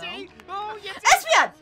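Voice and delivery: loud, high call. Real, not acted. Player interrupts Espeon's flirting, calling out. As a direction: yell to get a character's attention. Calling out to her game character.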